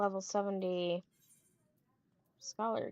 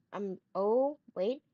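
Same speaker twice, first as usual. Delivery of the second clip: breath hitching before sneeze; about to sneeze; 4 dB louder, slower than usual. Real, not acted. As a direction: sneeze coming on, words catching. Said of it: "I'm gonna sneeze".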